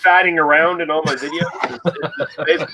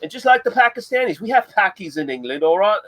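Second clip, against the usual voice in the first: Red Beard impression; 2 semitones higher than usual. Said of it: "I was doing a Red Beard impression there".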